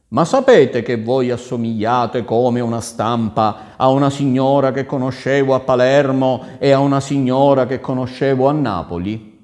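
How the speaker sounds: loud, insistent storybook prince; marvelling prince. Acted. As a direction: press the lady with projected amazement. (principe stupito, a voce alta)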